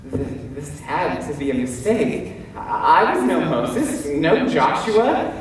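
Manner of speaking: stammering, self-doubting protest; hesitant disbelief. Acted. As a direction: falter on the first words, unsure of yourself. Gideon doubts he is chosen.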